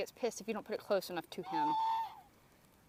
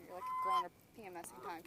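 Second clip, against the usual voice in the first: 1 high teasing. Real, not acted. Teasing angry bird.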